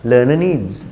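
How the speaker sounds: LEARNER NEEDS with a brief weak second vowel in LEARNER; short schwa. Shown as a demonstration. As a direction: model LEARNER NEEDS, reduced "-er". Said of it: "Short a sound is there".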